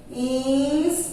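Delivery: "Instante" split: ins, tan, te; syllable by syllable. Shown as a demonstration. Teacher dictating to children as they copy, syllable by syllable.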